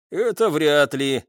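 slow, mildly dismissive reply; wry scoff. A narrator's reading. Daniil answering the lieutenant while reloading, mild wry scoff. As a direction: drag it out with a touch of doubt. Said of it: "хмыкнул Даниил".

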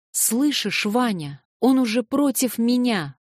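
high, loud despairing outburst; cry out. A narrator's reading. Natasha cries out to Vanya in loud despair. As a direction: she cries out that he has turned on her. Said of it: "вскричала Наташа".

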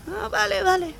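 high, soft chick voice; small, accepting little chick; high baby stork, quiet. Acted.

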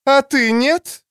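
high, loud snapped retort; snapping back. Acted. Shand snaps back at Hedjun, high and loud. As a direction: bite back at her sharply. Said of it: "огрызнулась та".

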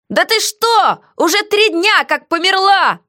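high, slow, mocking heroine; defiant heroine. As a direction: tease the jailer back, slowly. Heroine voiced in dialogue.

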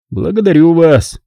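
a hint of clipped London politeness; clipped London Englishman. A narrator's reading. Racer thanks a fan, lightly clipped London manner. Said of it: "отрывистым лондонским произношением".

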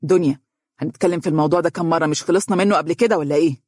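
quick, decisive reproach; firm. Acted. Faris firmly cuts Dunya off, decisive tone. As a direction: settle it firmly, no argument. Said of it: "وقال بحسم".

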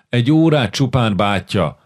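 Iván begs his brother, pleading. Acted. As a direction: wheedle for just one hour. Boy keeps begging his brother.

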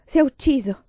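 loud, high-pitched burst of grief; distraught cry; anguished, breaking down. A narrator's reading. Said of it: "ruppe in singulti".

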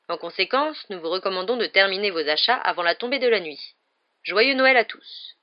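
formal proclamation, projected voice; measured, emphatic public notice; official notice. A narrator's reading. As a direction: read it out like a ministry announcement. Reads out posted official notice.

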